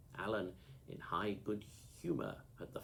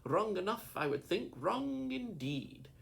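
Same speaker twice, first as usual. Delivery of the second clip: angry; 11 semitones higher, 5 dB louder than usual. A narrator's reading. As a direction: drag out the last words angrily. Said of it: "with a kind of fury".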